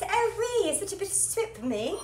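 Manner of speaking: squeaky high puppet voice; Nessie puppet voice. Pretend. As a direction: voice a tiny excited pet toy. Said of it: "She says".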